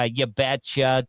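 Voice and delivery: slow, drawn-out Wisconsin "You betcha"; mock Midwestern Wisconsin twang; Wisconsin accent. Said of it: "do you guys do the".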